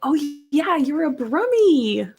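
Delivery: oh of sudden recognition, stretched out; surprised recognition. Real, not acted. Greeting a Birmingham viewer in chat, delighted surprise.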